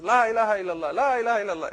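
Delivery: parrot-like chant, only a hint of a bird. Preacher voicing the trained parrot, lightly bird-like. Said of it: "It says".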